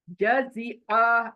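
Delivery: जजिया said slowly with the throat sound held; throat letter drawn out. Shown as a demonstration. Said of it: "again हलक के ऊपर".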